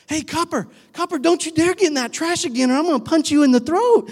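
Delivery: high, cheery voice with a threat inside; happy tone, harsh words. Shown as a demonstration. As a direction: sound sweet while you threaten. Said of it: "you can also say things to dogs like".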